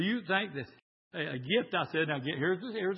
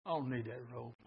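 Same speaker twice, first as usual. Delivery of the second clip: mild refusal; 4 semitones lower, 9 dB quieter than usual. Acted. Refusal he would not say.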